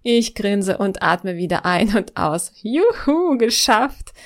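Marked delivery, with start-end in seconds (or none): 2.6-4.1 high, bright cheer of triumph. Real, not acted. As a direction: let the joy burst out. Jubelt nach der Autobahnauffahrt. (jubelnd, deutlich höher)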